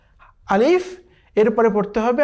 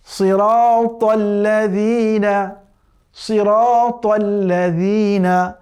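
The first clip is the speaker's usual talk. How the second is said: slow Quran recitation; much slower than usual. Shown as a demonstration. Teacher demonstrating to students, slow chanted recitation. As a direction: stretch each syllable of সিরাতাল্লাযীনা. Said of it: "কেমন?".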